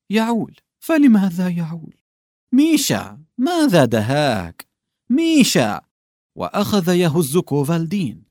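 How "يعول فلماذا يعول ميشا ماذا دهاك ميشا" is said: higher, urgent calling of a name; calling to a sobbing coworker. Acted. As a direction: shake him and call his name.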